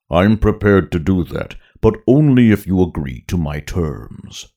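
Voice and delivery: big booming Hutt voice; Jabba voice. Acted. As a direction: rumble like a giant slug boss. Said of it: "a deep second sound".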